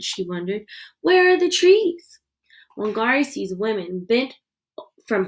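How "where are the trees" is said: high, loud, dismayed question; shocked cry. Acted. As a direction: call out in disbelief. Wangari finds the forest cut.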